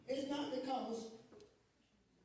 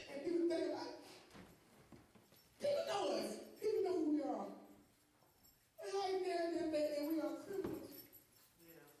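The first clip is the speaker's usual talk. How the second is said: emotional; 4 semitones higher than usual. Real, not acted. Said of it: "I get very emotional".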